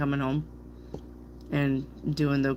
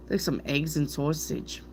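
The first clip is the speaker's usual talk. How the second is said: lightly put-on Brooklyn "saw-sage"; a touch of Brooklyn in sausage; Brooklyn accent; 4 dB quieter than usual. Reader ordering breakfast, light Brooklyn accent. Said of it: "sounds like you're from Brooklyn".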